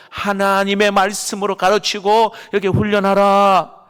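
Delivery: preacher driving the command home; forceful proclamation. Shown as a demonstration. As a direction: proclaim "가르치고" with full force to the congregation. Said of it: "다시 말합니다".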